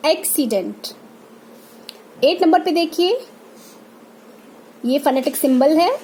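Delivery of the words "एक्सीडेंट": एक्सीडेंट starting on an open ae; ae sound demonstration. Shown as a demonstration. Teacher models the two-matra sound, open ae starting एक्सीडेंट. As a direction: open the first vowel of एक्सीडेंट to ae. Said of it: "जब आप sound देखेंगे".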